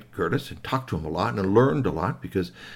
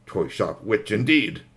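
slow, measured disdain; drawn-out scornful remark; disdainful retort; slower than usual. Acted. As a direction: say it slowly, with pointed scorn. Child's muttered disdainful retort.

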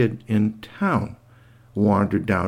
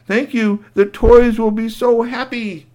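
earnest little robot; grateful robot; 12 semitones higher, 4 dB louder than usual. Acted. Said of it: "and he said".

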